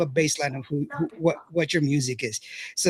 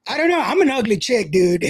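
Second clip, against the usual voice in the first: laughing; 4 semitones higher than usual. Retold or imitated. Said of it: "I was like".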